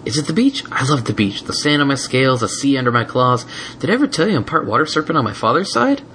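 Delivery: put-on chatty high little boy; young dragon voice. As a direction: rattle on happily. Spike voiced.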